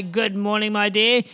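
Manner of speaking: loud, drawn-out self-greeting; hammed-up greeting to one's reflection; mock-admiring exclamation. Speaker to the mirror on waking, loud and hammed-up.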